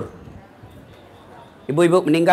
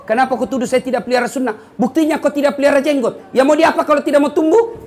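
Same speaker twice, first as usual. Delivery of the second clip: playful higher retort rising into a laugh; joking retort; 6 semitones higher than usual. Retold or imitated. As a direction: tease back, half laughing. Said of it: "Saya bilang". (jawaban bercanda sambil tertawa)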